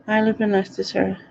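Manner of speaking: speaking around loose false teeth; words slurred by dentures not seated. Real, not acted. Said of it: "can't speak. I put my teeth in".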